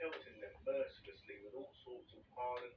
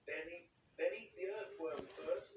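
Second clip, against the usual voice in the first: shouting; 6 semitones higher, 3 dB louder than usual. A narrator's reading. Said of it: "shouted the centipede".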